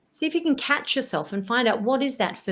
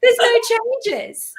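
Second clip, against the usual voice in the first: laughing monotone mock; 13 semitones higher, 6 dB louder, slower than usual. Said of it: "It's like".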